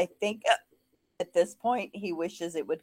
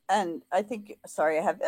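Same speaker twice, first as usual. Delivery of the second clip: hiccuping mid-sentence; speech broken by hiccups. Real, not acted. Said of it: "hiccups again".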